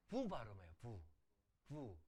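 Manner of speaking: 부 said as a V, not a W; V sound. Shown as a demonstration. Teacher shows how Hebrew speakers say it, 부 as V. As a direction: model 부 with a consonant V. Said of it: "우 발음하지 않아요".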